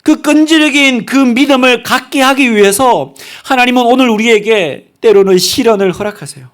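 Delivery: high, emphatic pulpit delivery; impassioned preaching. Real, not acted. Preacher telling the congregation of God's delight, impassioned. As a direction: proclaim it with rising fervor. Preacher exhorting at full force.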